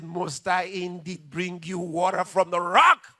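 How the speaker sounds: a loud, exasperated snap; angry retort. Retold or imitated. Moses answering the crowd, loudly irritated. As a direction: bark it back at the crowd in irritation. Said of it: "he got mad".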